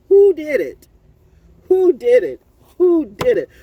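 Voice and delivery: loud, insistent questioning; indignant demand. Real, not acted. Calling out Fayetteville over its downtown, indignant and loud. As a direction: hammer out each demand.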